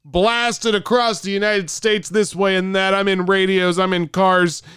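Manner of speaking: annoyed host yelling at a caller; yelling radio host. Pretend. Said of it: "all I did was start yelling".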